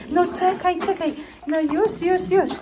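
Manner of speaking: high, gentle hushing; calm the little one down. Real, not acted. Soothing the fussing baby.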